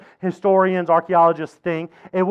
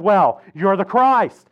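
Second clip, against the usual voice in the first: slow, emphatic confident answer; confident declaration; much slower than usual. Acted. Peter answers Jesus about who he is, confidently. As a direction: declare it boldly, stretching the words. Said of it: "at least he says it with confidence".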